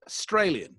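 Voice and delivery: "Australian" with a weak first vowel, "uh-STRAY-lian"; "Australian" said the Aussie way, uh-STRAY-lian; Australian-style pronunciation. Shown as a demonstration. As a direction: reduce the start of "Australian" to a schwa. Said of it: "I even say it".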